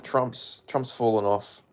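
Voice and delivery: ordinary talk, nothing marked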